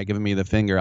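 ordinary talk, nothing marked

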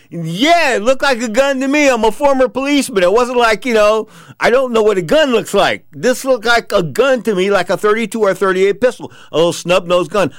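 high, loud pleading insistence; whining former policeman. Retold or imitated. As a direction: insist with a whiny edge. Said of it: "I'm whining".

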